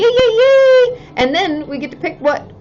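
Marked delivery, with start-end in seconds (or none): 0.0-1.0 high, loud cheering yays; excited yay. Real, not acted. Cheering the winner for her viewers, excited yays.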